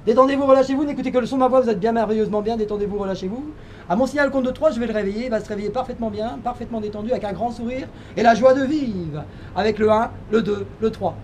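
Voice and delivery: soothing, insistent hypnotist voice; stage hypnotist counting them out of trance; hypnotist wake-up. Acted. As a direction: guide them gently back awake.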